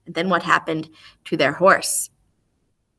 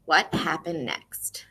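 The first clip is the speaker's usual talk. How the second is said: slow whispered question; 2 semitones lower, 6 dB quieter, slower than usual. Shown as a demonstration. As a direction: whisper it as a mystery. Teacher whispers story question.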